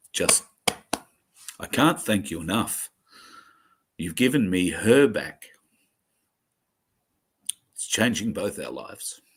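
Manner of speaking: overwhelmed, fighting back tears; tearful thanks. Real, not acted. Thanking viewers for giving his daughter back, tearful. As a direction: voice lifts and breaks with emotion. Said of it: "I've cried four times today".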